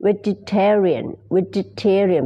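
"vegetarian" drawn out slowly with an ee sound; ee-sound pronunciation. Shown as a demonstration. Teacher showing the word for non-meat eaters, slow ee-sound pronunciation. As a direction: model "vegetarian" slowly, with "jet" and ee. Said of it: "เป็นเสียงอีนะคะ".

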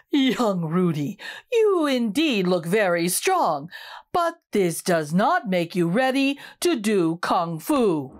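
low, slow wise elder; patient old teacher letting him down; slow elder broccoli. Acted. Eldest broccoli answers Rudy, low and slow.

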